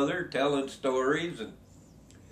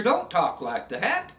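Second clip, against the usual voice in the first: slow scolding; 3 semitones higher, slower than usual. Retold or imitated. Priest scolds guide's cursing.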